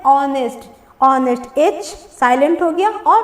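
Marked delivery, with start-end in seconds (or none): 0.0-1.6 "ऑनेस्ट" starting straight on the vowel; silent H. Shown as a demonstration. Teacher repeating the pronunciation for learners, "ऑनेस्ट" with silent H. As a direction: say "ऑनेस्ट" twice with the H dropped. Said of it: "उसको हम लोग क्या बोलते हैं?".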